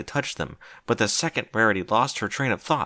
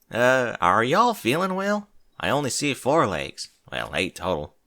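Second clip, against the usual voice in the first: skeptical Applejack. Acted. Applejack doubting her friends.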